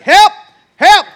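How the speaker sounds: put-on high yelled cries for help from a struggling little boy. Little son stuck with his rock, yelling high for help. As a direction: shout for help like a kid losing his pants. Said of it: "and he's like".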